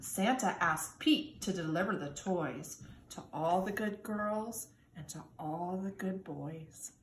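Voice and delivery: put-on lively storybook reading for kindergarten kids; reading to children. A narrator's reading. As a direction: read it like storytime, sing-song and bright. Reads picture book to children.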